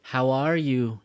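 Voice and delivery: loud "are", then "you" going down; downward question tune. Shown as a demonstration. Teacher corrects learners' question tune, going down. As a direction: ask it with stress on "are", not rising on "you". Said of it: "Go down. We don't go up".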